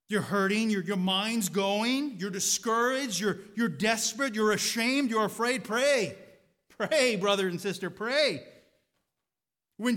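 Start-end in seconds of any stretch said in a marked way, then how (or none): 0.1-8.5 building, pressing preacher call; rising urgent preaching. Acted. Preacher pleading with brothers and sisters to pray, building. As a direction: press each word harder toward pray.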